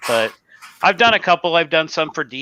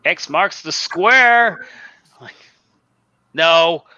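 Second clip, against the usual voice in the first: slow, tipsy drawl; a little tipsy, slow; 3 semitones higher, much slower than usual. Real, not acted. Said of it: "I'm a little tipsy".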